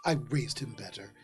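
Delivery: low, soft, mortified apology; apologetic mother. Acted. Mother apologising to the android for her son, hushed. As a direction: apologise quietly, dropping the voice.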